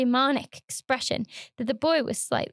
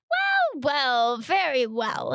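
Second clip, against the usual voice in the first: jocose shriek; much slower than usual. Acted. Barber to frightened boy, shrieking false jollity. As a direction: force a shrill jolly tone over menace. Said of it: "shrieking sort of manner".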